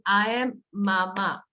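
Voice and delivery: slow, each syllable separate; syllable claps. Shown as a demonstration. Teacher clapping syllables for a child, slow. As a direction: clap out every syllable. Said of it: "syllable clap saying".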